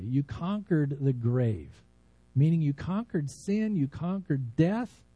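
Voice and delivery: earnest, unhurried pastor's prayer voice; heartfelt prayer. Acted. Pastor praying over his congregation, earnest and reverent.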